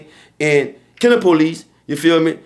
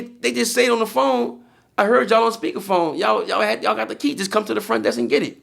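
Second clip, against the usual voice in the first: higher, insistent arguing; heated insistence; 6 semitones higher than usual. Retold or imitated. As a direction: press the clerk, pitched up. Arguing with clerk about key.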